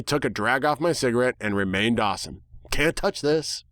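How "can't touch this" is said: lightly voiced cocky quip; smug one-liner. A narrator's reading. The protagonist posing after the crash, smug. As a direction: toss it off coolly.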